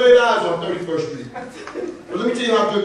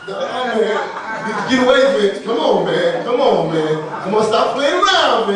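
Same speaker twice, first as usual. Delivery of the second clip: laughing brush-off; 4 dB louder, slower than usual. Retold or imitated. Brushing off Vince's church invite.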